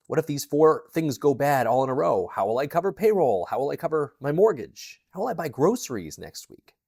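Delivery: imitating a mounting inner panic; retold anxious spiral. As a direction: voice your racing worries, one after another. Voicing her spiraling panicked thoughts.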